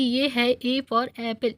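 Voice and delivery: slow, spelled-out "A for apple"; teacher's slow demo. Shown as a demonstration. Teacher reading "A for apple" slowly for the student to repeat. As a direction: say "A for apple" slowly for him to copy. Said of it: "मेरे पीछे पीछे बोलो तुम".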